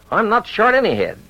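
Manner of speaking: put-on high, flustered sputter of an old rancher. A narrator's reading. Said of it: "sputtered Clint".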